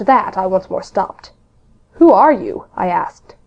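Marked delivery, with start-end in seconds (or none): 2.0-2.6 sharp called question; calling out. A narrator's reading. Jim calls out to the ragged stranger, raised voice. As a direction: call out to the stranger warily.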